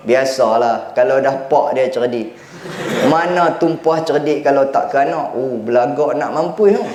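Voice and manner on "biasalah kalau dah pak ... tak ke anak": boastful father. Retold or imitated. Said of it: "kata si pak ni".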